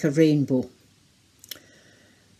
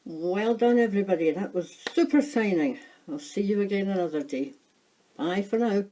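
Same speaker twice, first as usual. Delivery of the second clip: put-on high, bright cheer for children; overbright kids party host; 5 semitones higher than usual. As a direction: sign off like a beaming kids' host.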